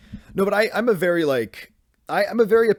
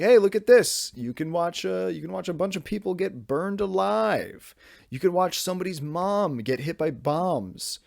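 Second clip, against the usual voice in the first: higher, drawn-out fake cheer; mock enthusiasm; 5 semitones higher than usual. Parent showing a grim movie to hypothetical children, mock enthusiasm. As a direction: pretend to sell it eagerly.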